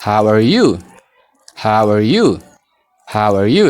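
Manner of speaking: "How are you" modelled for repeating, linked as "how-er you"; full-sentence drill. Shown as a demonstration. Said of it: "hima guutuu isaa immoo". (shaakala hima guutuu)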